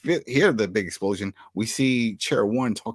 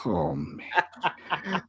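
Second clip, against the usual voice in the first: laughing; 6 semitones higher, 6 dB quieter than usual. Real, not acted. Laughing reaction.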